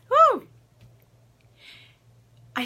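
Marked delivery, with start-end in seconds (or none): 0.1-0.5 high, loud "woo" to shake off emotion; loud whoop. Real, not acted. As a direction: let out a sudden high whoop of release. Releasing emotion after heated quote.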